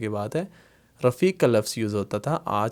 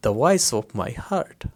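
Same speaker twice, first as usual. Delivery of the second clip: very slow, word by word English gloss; slow translation; much slower than usual. Shown as a demonstration. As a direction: drag each word out for the class. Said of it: "मेरे दिल की आवाज़". (बहुत धीरे धीरे अनुवाद)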